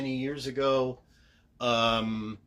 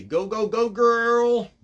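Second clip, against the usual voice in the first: high, loud cheer building to a holler; loud, high rallying cry; cheering encouragement; 11 semitones higher, 13 dB louder, slower than usual. Acted. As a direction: holler it like a cheerleader on the last word. Reading out his written cheer.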